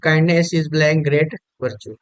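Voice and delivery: slow dictation read. Shown as a demonstration. Teacher reads quiz sentence aloud.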